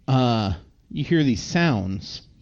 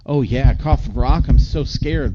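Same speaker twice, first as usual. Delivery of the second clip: mock fear; 6 dB louder than usual. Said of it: "plays along".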